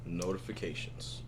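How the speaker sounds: whispering. Real, not acted. Outro whisper.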